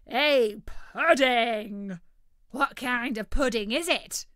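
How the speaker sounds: loud, eager bird voice; greedy turkey, thrilled at food; excited turkey voice. Acted. Tick-Tock Turkey excited.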